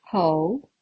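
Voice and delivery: "Ho-tel" split by a long pause; syllable by syllable. Shown as a demonstration. Teacher counting syllables for learners, broken into syllables. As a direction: break Ho-tel into two separate syllables. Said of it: "pronounce the second syllable with more emphasis".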